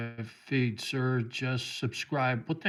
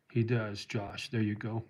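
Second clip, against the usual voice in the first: choked up; 3 semitones lower, 5 dB quieter than usual. Real, not acted. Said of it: "I get a little choked up".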